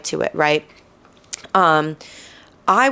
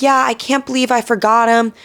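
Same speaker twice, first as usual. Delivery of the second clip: put-on chirpy older woman; 6 semitones higher than usual. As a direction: toss it off cheerfully. Woman's casual remark.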